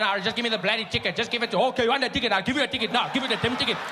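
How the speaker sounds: mock angry driver rant. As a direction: rant at the cop in a hammed-up way. Ranting white driver at cop.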